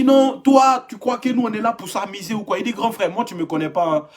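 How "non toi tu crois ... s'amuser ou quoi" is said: lightly voiced big brother. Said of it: "Le grand frère me dit".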